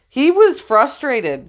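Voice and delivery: "He was frustrated" drawn out, high and slow; stressed slow emphasis. Shown as a demonstration. Preacher stressing Jesus' frustration, high and slow. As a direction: stretch "was" high to press the point.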